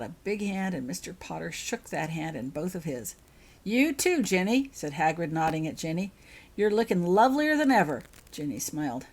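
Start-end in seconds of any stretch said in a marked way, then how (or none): 3.6-8.0 lightly voiced giant. Hagrid complimenting Ginny.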